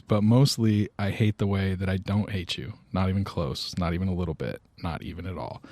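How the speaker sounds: understated, sincere reading that gradually softens; retold movie confession, trailing down softly; heartfelt recited poem. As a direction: recite it earnestly, letting the voice fade out. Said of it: "giving this really heartfelt".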